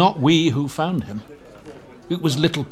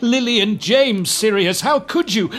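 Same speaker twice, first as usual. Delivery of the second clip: Fudge imitating Pettigrew's sobbing accusation; retold sobbing plea; 9 semitones higher than usual. Minister retelling Pettigrew's plea, mock sobbing. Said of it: "They say he was sobbing".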